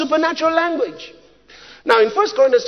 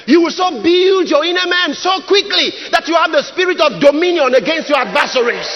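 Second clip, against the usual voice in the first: emphatic preaching with stretched key words; forceful preaching; 2 semitones higher than usual. Real, not acted. Preacher rousing timid believers, forceful preaching. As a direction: drive it home to the congregation.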